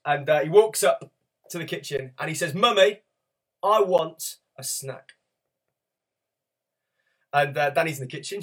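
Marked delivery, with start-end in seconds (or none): 2.5-5.1 higher, mock small child whining for a snack; toddler asking. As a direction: play the little boy wanting a snack.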